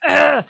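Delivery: loud exasperated groan; loud frustrated groan. Retold or imitated. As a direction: groan at yourself for tearing up. Retold groan at her own tears.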